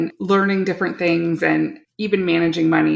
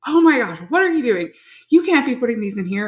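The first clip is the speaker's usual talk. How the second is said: mock-appalled husband, higher voice; retold telling-off, pitched up and disbelieving; imitating scolding husband; 4 semitones higher than usual. Husband catches son putting eggshells back in carton, mock scolding. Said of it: "giving him quite a hard time".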